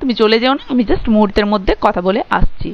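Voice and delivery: ordinary talk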